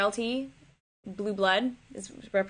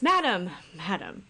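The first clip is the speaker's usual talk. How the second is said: nervous messenger; 2 semitones lower, slower than usual. Acted. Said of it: "Just him being nervous".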